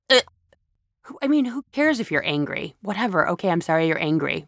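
fast, brushing it off; dismissive reply. Retold or imitated. The friend dismisses the anger, fast and dismissive. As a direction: shrug it away quickly. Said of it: "And they go".

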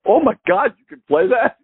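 amazed Paul. Retold or imitated. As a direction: gasp it out in awe. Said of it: "and he goes".

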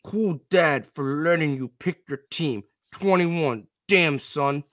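lightly voiced robot, stiff and even; a hint of a robot reading a comment. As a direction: read it like a half-hearted robot. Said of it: "I'll try to do a robot".

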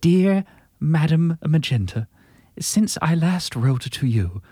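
put-on slow old Hollywood transatlantic accent. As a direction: read it slowly like a transatlantic film star. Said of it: "so this is in that voice".

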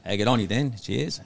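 lightly put-on Aussie; a hint of Crocodile Dundee's Australian; Australian accent. Shown as a demonstration. Host offering his own Aussie, light Australian accent. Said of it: "mine's would just like a".

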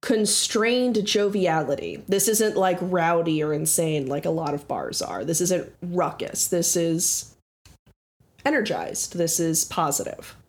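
measured tavern description; game master's scene setting. Acted. Game master describing a tavern to players, scene-setting narration. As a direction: set the scene evenly for the players.

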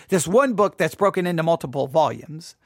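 ordinary talk, nothing marked

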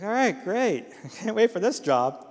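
high-pitched sarcastic "can't wait" delivery; sarcastically upbeat retold reply; mock enthusiasm. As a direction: feign delight at bad news, with a laugh. Sarcastic reply to coworker's warning.

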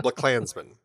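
"Black Klansman" said as one big word; run-together title. Shown as a demonstration. Host repeating the title to show pronunciation, "Black Klansman" run together. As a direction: join "Black Klansman" into a single word at the shared K. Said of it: "is, I think, how you say it".

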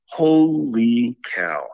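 slow, stretched-out amazement; drawn-out holy cow. Retold or imitated. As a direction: let the wonder stretch long and slow. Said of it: "I was like".

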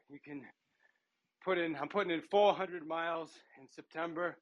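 talking while pedaling, short pauses; on the bike, breath between phrases; cycling hard. Real, not acted. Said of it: "bike right now".

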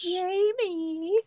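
high, bright call of the name; excited call. Real, not acted. Host eagerly calls out the guest before his message plays. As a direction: sing out the name like an announcer.

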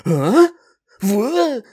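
high, loud startled yelp, retold; hammed-up sudden alarm; startled realization. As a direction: blurt it in mock shock, voice leaping up. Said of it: "I realized and was like".

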